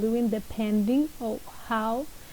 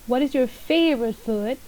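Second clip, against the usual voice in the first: "food" ends on a clear rise; rising question. Shown as a demonstration. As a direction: lift the voice at the end of "food". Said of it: "your voice goes up".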